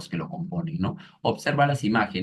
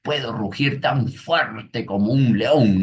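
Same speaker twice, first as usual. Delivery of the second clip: niño orgulloso; 3 semitones higher, 4 dB louder, slower than usual. Retold or imitated. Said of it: "Y el niño le dice".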